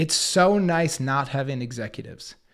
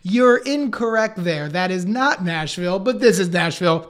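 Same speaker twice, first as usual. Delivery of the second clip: playful correction; 2 semitones higher, 4 dB louder than usual. Retold or imitated. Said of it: "had a great sense of humor and kept driving it".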